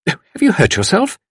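high-pitched anxious question; urgent demand. A narrator's reading. Lady in bed to fallen visitor, demanding. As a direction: demand it with sudden concern. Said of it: "demanded Tuppence".

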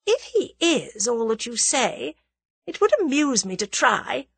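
high, poised lady's voice; amused, confident scheming woman; coolly amused villainess. A narrator's reading. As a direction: savour the challenge.

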